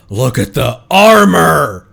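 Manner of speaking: loud, slow, thrilled exclamation; excited. Real, not acted. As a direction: call it out, delighted. Excited by the armor design.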